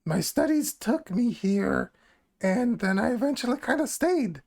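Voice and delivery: lightly voiced goblin woman, unhurried. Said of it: "I have to do the goblin voice".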